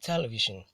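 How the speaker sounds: "television" stressed on TE; first-syllable stress. Shown as a demonstration. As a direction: hit TE in "television", then let it fall. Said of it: "is pronounced as television".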